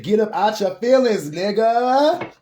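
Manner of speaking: high, loud street-talk scolding; blunt spirit voice, stronger. Retold or imitated. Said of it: "My spirit guy said".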